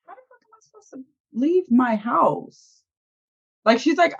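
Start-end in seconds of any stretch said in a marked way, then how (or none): 0.1-2.8 higher-pitched, mock-baffled question; retold confusion. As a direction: imitate someone confused, pitched up. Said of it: "And she's just confused".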